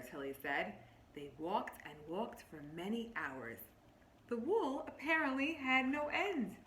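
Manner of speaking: lightly voiced story narration, drawing them in; reading to children. Teacher reading a picture book to her class, storybook voice.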